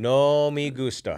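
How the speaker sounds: slow hammed-up Spanish accent; drawn-out playful Spanish accent. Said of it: "Spanish accent I can".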